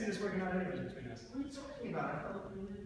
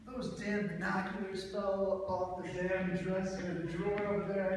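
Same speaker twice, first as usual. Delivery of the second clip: annoyed; 2 semitones higher, 5 dB louder, slower than usual. Acted. Annoyed at fallen binoculars.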